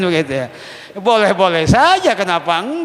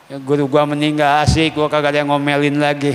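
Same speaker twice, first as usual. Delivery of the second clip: mock cheeky student; faster than usual. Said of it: "itu murid durhaka itu".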